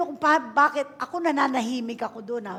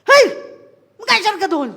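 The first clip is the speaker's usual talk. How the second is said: retold yell; 8 semitones higher, 13 dB louder than usual. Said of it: "pinalo ko pa eh".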